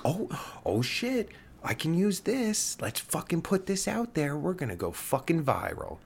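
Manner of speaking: high, excited imitation of a troll finding dirt; mock gleeful tweeter. Mocking online outrage hunters finding an old tweet, high excited. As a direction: mimic a giddy cancel-culture poster. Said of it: "it's like".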